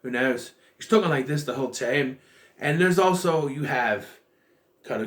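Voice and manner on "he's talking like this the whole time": lightly imitated Scottish brogue; a loose hint of Scottish vowels; Scottish accent. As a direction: mimic an actor's Scottish accent. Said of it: "maybe that's Scottish".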